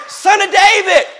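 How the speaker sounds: high-pitched, urgent calling out; blind beggar's plea. Acted. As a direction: cry out for mercy over a crowd, pitched high. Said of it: "he started saying".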